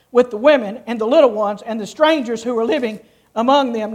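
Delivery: measured, formal reading of the passage; scripture reading. Acted. Pastor reading Joshua to the congregation, solemn and measured. Preacher reads scripture aloud.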